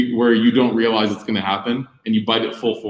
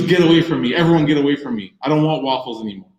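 put-on upset child; 3 semitones higher, faster than usual. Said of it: "he goes".

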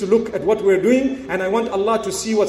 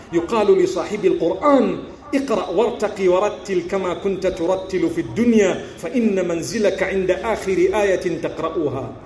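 rapid hadith recital; 3 semitones lower, much faster than usual. Shown as a demonstration.

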